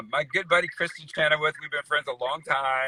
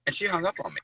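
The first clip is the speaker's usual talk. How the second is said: whispered aside; 4 semitones higher, 5 dB quieter, faster than usual. Real, not acted. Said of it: "unvoiced aside".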